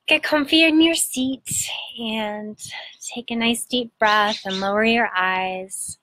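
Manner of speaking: unhurried meditation guide with long pauses; measured, soothing guidance, phrase by phrase; guided meditation. Acted. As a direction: gently lead listeners inward, pausing between phrases.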